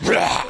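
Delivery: over-the-top creature roar. Acted. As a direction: overdo a monster roar. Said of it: "some way too much".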